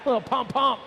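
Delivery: high, excited announcer shouting pump; Chad impression. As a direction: hype it up like Chad calling the riders. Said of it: "That's my best Chad impression".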